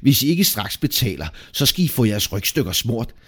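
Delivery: angry innkeeper, starting high and loud; enraged scolding; furious threat. A narrator's reading. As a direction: open loud and high, then settle into a threat. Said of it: "råbte han rasende".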